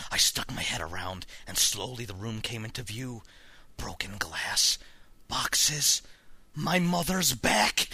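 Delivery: suspenseful reading, slowing at the reveals; tense story narration. A narrator's reading. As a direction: narrate with growing dread. Reads horror story aloud.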